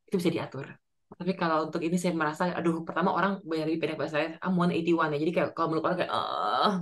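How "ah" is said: low drawn-out "uhh" of effort; mock groan of bending down; stooping groan. Shown as a demonstration. Tall woman stooping to hug someone, low groan. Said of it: "bungkuk gitu".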